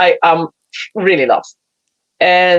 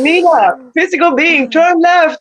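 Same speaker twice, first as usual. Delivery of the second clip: higher, patient instruction; lightly voiced higher self; 7 semitones higher, slower than usual. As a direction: call it down like a wise guide. Higher self speaking again.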